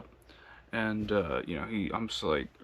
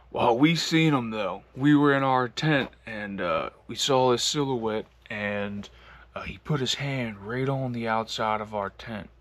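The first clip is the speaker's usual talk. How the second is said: Southern drawl; 3 dB louder than usual. Retold or imitated. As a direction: tell it like a Georgia country man, lightly put on. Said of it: "they got a real deep Southern drawl".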